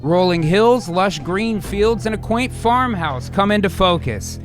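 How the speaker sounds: screenplay narration. Acted. Reads screenplay scene setting.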